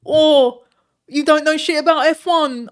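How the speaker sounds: loud, high, put-on ranting voice; Hassan impression. Streamer mimicking rival for chat, put-on yell. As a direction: shout it like an outraged rival streamer. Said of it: "was it a good Hassan?".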